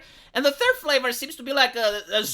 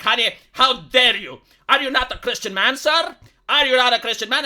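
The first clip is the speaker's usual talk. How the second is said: indignant moralizer, raised in volume on challenges; mock finger-wagging scolding; 5 dB louder than usual. Streamer showing viewers how to shame Kanye, mock finger-wagging scolding. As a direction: play at scolding a sinner, hammed-up. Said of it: "you should waggle your finger at Kanye".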